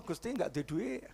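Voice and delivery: softly complaining to God; a small, hushed prayer about money; quiet plea to God. Retold or imitated. (doa lirih mengeluh)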